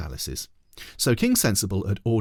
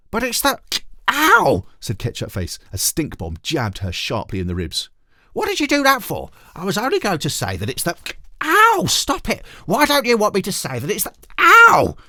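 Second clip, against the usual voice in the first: put-on very high, loud girl's yelps of ow; girl yelping at her brother, very high; Ketchup Face protesting; 12 semitones higher, 7 dB louder than usual. A narrator's reading. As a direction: protest while being jabbed in the ribs. Girl getting jabbed, protesting.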